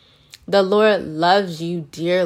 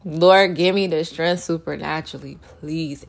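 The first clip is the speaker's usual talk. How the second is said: pleading prayer. Retold or imitated. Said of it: "I lean on my God".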